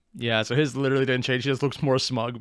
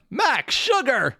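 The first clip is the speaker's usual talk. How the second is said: high, drawn-out character quote; punchy high-pitched name call-out; Max Sugar quote; 10 semitones higher, much slower than usual. Retold or imitated. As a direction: stretch both words out, pitched high. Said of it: "that face he's making to the".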